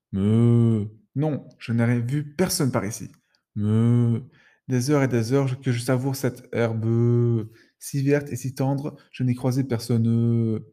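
slow cow voice chewing grass; mouth full. Acted. Cow answering while chewing grass, mouth full. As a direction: talk slowly through a mouthful. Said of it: "la bouche pleine".

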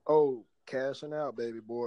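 usual speaking voice

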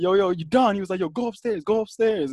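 lightly mimicked high-pitched urging; imitated peacemaker. Retelling the middle man separating the fighters, mock urgent.

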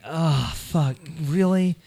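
a light mock New York accent; bad New York accent. Mocking the audiobook narrator's New York accent, lightly done. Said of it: "they all talk like this".

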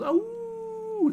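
high squeaky puppy "Ow!"; puppy yelp. Acted. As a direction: yelp like a tiny pup. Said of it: "That's the flavor text".

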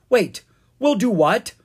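high, loud disbelief; alarmed exclamation. A narrator's reading. Owen hears Ella agree to help, exclaiming in disbelief. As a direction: exclaim it, thoroughly taken aback. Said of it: "Owen exclaimed".

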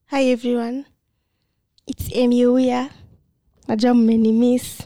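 high, loud, slow greeting; slow high intro. Acted. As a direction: stretch out a sweet host intro.

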